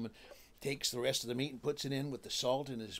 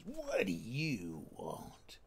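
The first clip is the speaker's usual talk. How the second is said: gruff king; 5 semitones lower, much slower than usual. Acted. King answers door gruffly.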